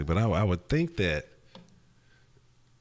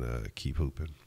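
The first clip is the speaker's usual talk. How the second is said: normal talking voice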